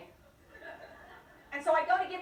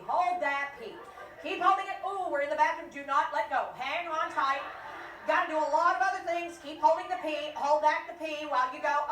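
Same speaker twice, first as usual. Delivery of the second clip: coaching the bladder; 4 dB louder than usual. Acted. Coaching the bladder, laughing crowd.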